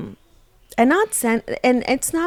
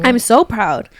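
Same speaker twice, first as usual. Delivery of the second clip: teasing proud voice, pitched up; mock proud; 5 dB louder, slower than usual. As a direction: tease her pride. Husband mocks wife proudly.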